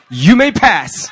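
slow, loud and grand, laughing through it; a mock royal pardon; grandly bestow permission to pass; gatekeeper granting passage. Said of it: "And he goes".

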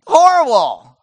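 high, loud cry of giving up; despairing Elijah. Acted. Elijah crying out to God that he quits, in a high loud wail. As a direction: wail it like a prophet who wants to quit. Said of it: "That's what Elijah is saying".

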